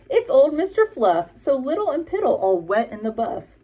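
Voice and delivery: high, loud teasing ram voice; mocking ram. A narrator's reading. Ram mocking the little wet buffalo, high and teasing. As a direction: poke fun at him. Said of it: "cried the Ram".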